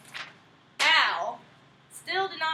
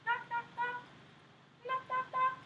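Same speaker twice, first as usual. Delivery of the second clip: high slow sing-song call; wolf calling out; 8 semitones higher, 9 dB louder, slower than usual. Acted. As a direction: call out at the door. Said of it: "He went".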